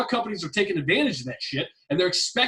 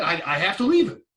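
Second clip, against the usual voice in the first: laughing mock quote; 4 semitones lower than usual. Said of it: "You would have said".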